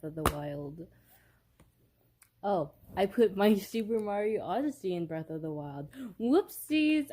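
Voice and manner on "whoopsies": high, loud, sing-song whoopsie; playful oops. Real, not acted. Vlogger finding Mario in the Zelda box, playful surprised oops. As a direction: catch your own silly mistake out loud. Mixed up game cartridges.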